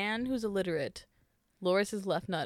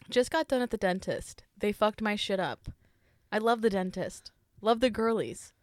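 dramatic monologue read. Shown as a demonstration. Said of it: "Should I read it like a monologue".

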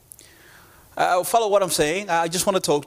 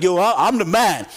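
mock-boastful "Yo, I'm the man", chest puffed; cocky swagger; 2 semitones lower than usual. Senior showing off after practice, cocky swagger. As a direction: strut the words "I'm the man" like a big shot. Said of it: "I didn't leave practice like".

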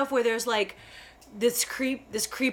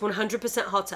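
put-on British accent; 3 dB quieter than usual. Recommending the Netflix show, slight British accent. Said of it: "You just had to say it in a British accent".

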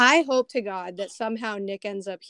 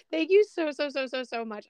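choked up; 4 semitones higher than usual. Real, not acted. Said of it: "Sorry, I'm just, like, choking".

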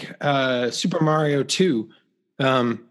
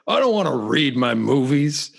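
put-on dad voice. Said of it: "that is not his voice".

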